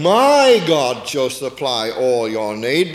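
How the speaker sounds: "My" rising and held, slow; stress on My. Shown as a demonstration. Preacher restores Paul's words, stressing "My". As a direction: press "My God", slow and firm. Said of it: "Paul was saying".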